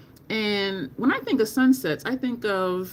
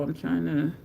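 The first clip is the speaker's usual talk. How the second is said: ordinary delivery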